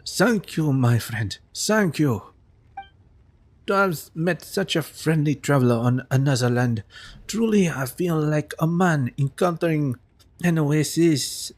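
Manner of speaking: lightly voiced flowery merchant, slow on the desert line; a hint of an effusive wandering merchant; grateful traveler. Reads grateful NPC traveler lines.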